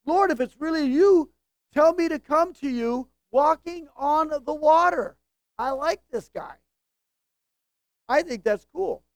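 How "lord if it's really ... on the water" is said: eager, raised voice with some joy; joyful response. Acted. Peter answering Jesus from the boat, joyful response. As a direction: call it out gladly, a little high. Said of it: "he responds immediately with joy".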